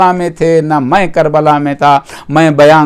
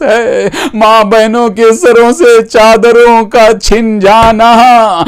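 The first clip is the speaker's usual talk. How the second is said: tearful reproach. Retold or imitated. Preacher voicing the weeping Imam's rebuke, tearful reproach. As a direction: lament that builds in pitch as the questions mount. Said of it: "امام رو کر کہتے".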